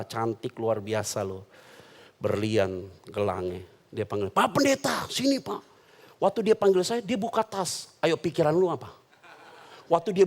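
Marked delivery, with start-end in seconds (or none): 4.3-5.6 high, sweet rich-lady call; mock high society lady; sosialita calling. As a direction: beckon the pastor like a posh socialite. Rich lady calls the pastor over.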